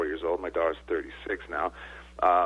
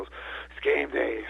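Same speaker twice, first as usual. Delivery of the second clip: slow game day; 5 semitones higher, much slower than usual. Retold or imitated. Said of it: "and you go".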